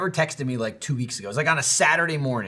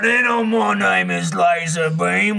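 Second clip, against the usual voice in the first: sheriff mode; slower than usual. Pretend. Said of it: "I saw you go into sheriff mode".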